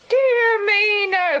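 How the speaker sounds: high, loud startled denial; surprised protest. Acted. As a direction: brush off the idea, startled. Landlady surprised by wrong guess.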